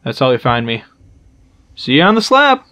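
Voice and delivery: bad Irish accent, lightly done; a hammy Irish brogue. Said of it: "my very bad Irish".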